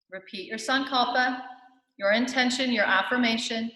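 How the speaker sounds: measured meditation guide with spacious pauses; guided meditation. Real, not acted. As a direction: guide listeners into their bodies, phrase by phrase.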